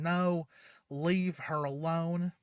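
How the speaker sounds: retold scream. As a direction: cry out to save her partner. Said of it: "and Yang screaming".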